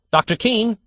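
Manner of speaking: high loud call across the street. A narrator's reading. Father calling to the doctor outside the hospital, loud call. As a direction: call after the doctor from a distance. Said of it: "he called".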